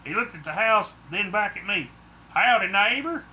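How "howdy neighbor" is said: louder, higher cheery hello; bright, hearty Southern greeting. Acted. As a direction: greet the new neighbor brightly. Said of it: "he said brightly".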